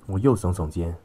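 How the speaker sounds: ordinary delivery, nothing marked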